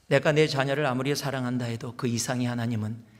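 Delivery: ordinary delivery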